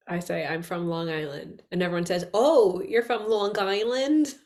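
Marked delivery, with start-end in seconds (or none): 0.5-1.6 put-on "I'm from Long Island" with a light Long Island accent. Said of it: "that's not how I said it". 2.3-4.3 "Oh, you're from Long Island?" drawn out slowly with an exaggerated accent; mocking Long Island accent. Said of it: "that's not how I said it".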